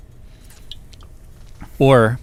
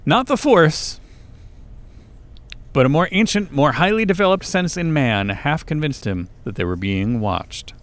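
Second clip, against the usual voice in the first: dramatic novel read-aloud, high opening, sinking close; measured storytelling with a long pause; story narration; 4 semitones higher than usual. A narrator's reading. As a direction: narrate it with suspense, dropping off at the end.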